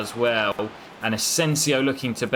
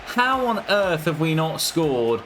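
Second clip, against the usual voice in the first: high, wailing cry of disbelief at the woodwork; real exasperated outcry, pitched way up; can't believe it, voice shooting up high; stunned disbelief; 10 semitones higher than usual. Real, not acted. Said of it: "I can't believe this".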